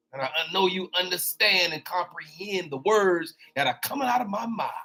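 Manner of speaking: light Chris Tucker quip, speeding up at the end; a lightly voiced Rush Hour line. Preacher to congregation, a light Chris Tucker impression. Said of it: "That's that Chris Tucker".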